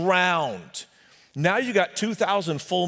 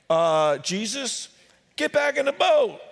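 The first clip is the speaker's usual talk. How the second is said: nervous Peter; 6 semitones higher than usual. Acted. Peter nervous at charging madman.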